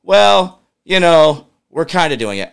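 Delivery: lightly voiced evasive bureaucrat, shrugging it off; mocking the director. Host mocks the director's testimony, mild sheepish official voice. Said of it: "turns around in testimony just today, said".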